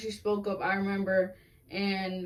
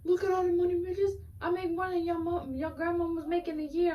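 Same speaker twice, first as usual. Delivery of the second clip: put-on high, showy spoiled-kid voice; bratty rich kid; 10 semitones higher than usual. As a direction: flaunt money like a brat. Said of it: "of her just like".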